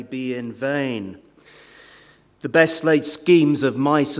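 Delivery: reading the Burns stanza aloud, unhurried; poem reading. Shown as a demonstration. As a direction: recite it like a poem, not in an accent. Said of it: "I'm not gonna do it in a Scottish accent".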